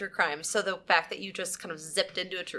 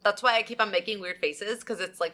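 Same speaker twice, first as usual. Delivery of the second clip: numb face. Real, not acted. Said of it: "My face is numb".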